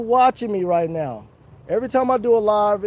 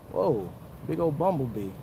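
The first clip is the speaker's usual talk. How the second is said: startled by bee; 7 semitones lower, 10 dB quieter than usual. Real, not acted. Spots bee under tree.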